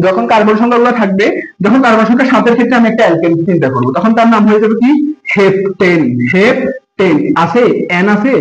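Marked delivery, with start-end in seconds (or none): 5.3-7.6 slowed for emphasis. Shown as a demonstration. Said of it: "এই যে এটাতে N আছে".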